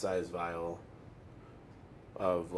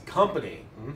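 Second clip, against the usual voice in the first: lightly acted booming voice, louder; a hint of a boom, questioning at the end; 7 dB louder than usual. Game master as unseen voice overhearing in the alley, mildly booming. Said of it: "a booming voice that says".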